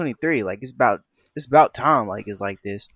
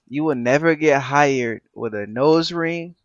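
mock stern warning; 4 semitones higher, 7 dB louder, slower than usual. Mike's warning quoted mockingly.

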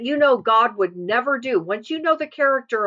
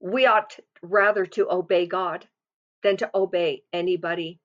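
measured, calm firmness, dropping lower at the end; firm and calm; 3 semitones lower than usual. Acted. Believer answering the world and the enemy, firmly and calmly. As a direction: state it calmly, with pauses between phrases. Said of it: "we say firmly and calmly".

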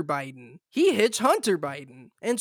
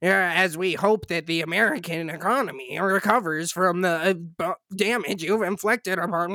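droning nasal voice; 3 semitones lower than usual. Retold or imitated. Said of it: "his droning, fucking nasally voice".

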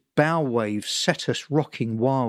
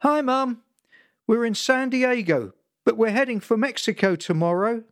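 calm, soothing; 9 semitones higher than usual. Retold or imitated. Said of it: "I said it calmly, soothingly".

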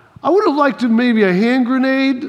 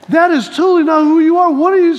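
higher-pitched incredulous retort; mock disbelief; 5 semitones higher, 3 dB louder than usual. Boy reacting to mom's permission to fight, mock disbelief. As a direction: retell it as a baffled protest. Acting out his shocked reaction.

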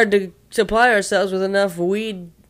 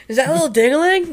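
mock nickname; 6 semitones higher than usual.

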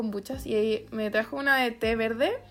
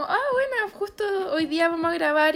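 pitched-up excited self-quote; bright high quote; 5 semitones higher than usual. Retold or imitated. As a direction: say it brightly, voice jumping up. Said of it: "entonces dije como".

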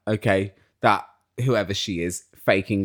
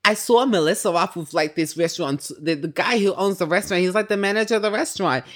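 Teresa; 6 semitones higher than usual. Retold or imitated. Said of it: "She was like".

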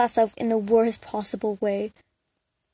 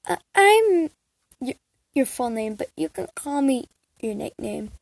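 stammering shaky voice; a touch of shaky nerves. Acted. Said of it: "you respond in a shaky voice".

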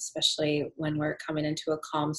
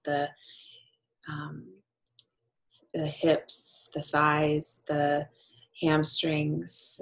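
guided meditation. Acted. Leads a yoga nidra practice.

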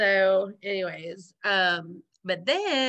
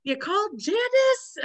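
imitating the gang; 11 semitones higher than usual. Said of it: "the gang is sitting there".

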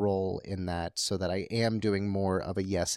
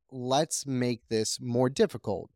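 excited playful; 3 semitones higher than usual. Retold or imitated. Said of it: "he goes full".

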